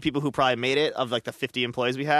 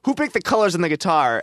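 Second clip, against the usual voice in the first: mild mock yell, slightly raised; a rock guitarist yelling; 4 semitones higher, 4 dB louder than usual. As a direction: demand it of the crowd, half-yelling. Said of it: "he started yelling in the audience".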